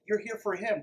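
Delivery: ordinary talk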